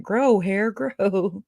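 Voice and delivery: lightly imitated preacher's incantation, drawn out; preacher imitation. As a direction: call it out like a preacher commanding, playfully. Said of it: "That preacher dude".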